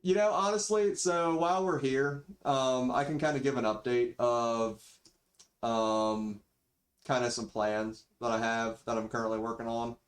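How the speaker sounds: thin built-in microphone audio; cheap default mic. Real, not acted. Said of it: "sorry for the mic quality".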